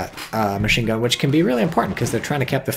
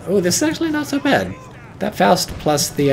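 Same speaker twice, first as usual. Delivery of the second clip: excited; 9 semitones higher than usual. Real, not acted. Armored car survives, caster relieved.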